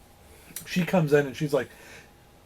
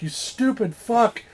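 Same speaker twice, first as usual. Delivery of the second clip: drawn-out, raised-pitch insult; mild mock outrage; 8 semitones higher, slower than usual. Tied-up star cursing his captor, mock outrage. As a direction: spit out the insult slowly. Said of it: "he spits the shit out".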